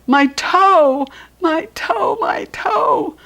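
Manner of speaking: high, loud hollered "my toe"; a kid wailing in pain; hollering. Acted. Junie B hollering in the backyard over her hurt toe. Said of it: "I hollered".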